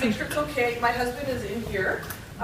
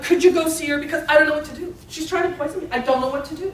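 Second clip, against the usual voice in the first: higher, louder mock desperation; pleading husband; 5 semitones higher, 6 dB louder, faster than usual. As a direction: beg the rabbi, lightly hammed up. Husband begs rabbi for help.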